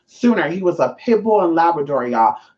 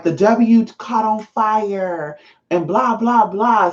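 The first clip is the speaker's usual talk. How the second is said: mocking staff excuse; 4 semitones higher, much slower than usual.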